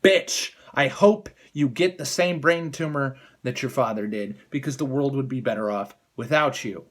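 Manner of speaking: shrill screeching high mock rant, loud; mocking Meghan McCain. Mocking a TV pundit as a shrieking, furious harpy. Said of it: "Meghan McCain is like".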